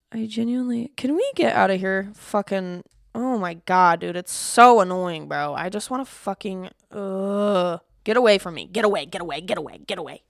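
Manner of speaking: loud furious rant, close to shouting; real angry shout at Grammarly, fed up; crash out. Real, not acted. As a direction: lose it completely at the pop-up. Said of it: "one of my biggest crash outs".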